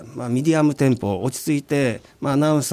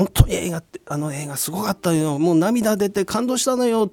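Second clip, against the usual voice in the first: mock moved moviegoer; 4 semitones higher than usual. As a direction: act out being touched by a film, a little higher. 感動した観客の台詞を例として演じる. (感動した観客を軽く演じて)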